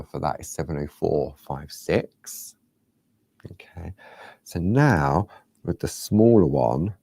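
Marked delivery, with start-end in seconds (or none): 3.5-6.9 whispering. Real, not acted. Teaching parchment craft to viewers, whispering. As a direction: whisper it, focused on the drawing. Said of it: "I don't know why I'm whispering".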